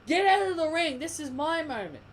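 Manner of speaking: a rival barking to get out of her ring; imitated angry champion. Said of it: "should have told those two".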